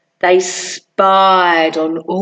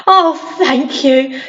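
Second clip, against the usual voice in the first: smiling thanks. Acted.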